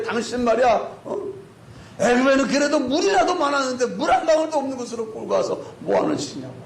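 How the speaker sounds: high-pitched acted reproach; imitated angry confrontation; accusing complaint. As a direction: round on the leader indignantly. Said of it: "원망이 막 원성이 막 하늘을 찌릅니다".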